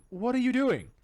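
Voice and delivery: high, loud imitated exclamation; mock outrage. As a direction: act out a shocked guide telling someone off. Calm guide shocked at player.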